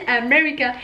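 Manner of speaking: "America" opening on a full A; habitual French pronunciation. Shown as a demonstration. Vlogger recalls her old habit, America with an A. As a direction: say "America" with a clear "ah" first. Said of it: "qu'on m'a jamais dit".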